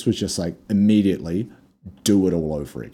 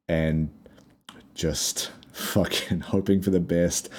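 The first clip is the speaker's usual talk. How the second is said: laughing whisper; 2 semitones lower, 4 dB quieter, slower than usual. Retold or imitated. Laughing whisper about desperate fight.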